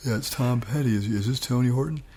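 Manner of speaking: put-on Gainesville accent phone voice; imitated Gainesville accent; a rock singer. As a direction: answer as the musician in a Gainesville accent. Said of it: "best I can do is my Gainesville accent".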